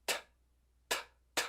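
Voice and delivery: soft voiceless "t" puffs, one by one; T without vowel. Shown as a demonstration. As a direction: say "t" as in "tá" with the A removed. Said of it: "Tira o A". ("t" sem o A, só o som)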